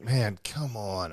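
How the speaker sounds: drawn-out, slow mock complaint; exasperated groan, retold. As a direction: stretch it out like a bummed plea. Retelling own bummed reaction to delay.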